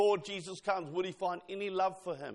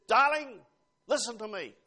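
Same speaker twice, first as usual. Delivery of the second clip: stern darling; 2 semitones higher, 4 dB louder than usual. Retold or imitated. Spouse scolding a partner, stern warning tone. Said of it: "it changes its tone".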